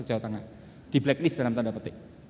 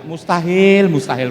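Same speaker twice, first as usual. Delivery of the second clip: MUSTAHIL thrown out much louder; loud emphatic; 10 dB louder, much slower than usual. Shown as a demonstration. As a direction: hammer the word Mustahil.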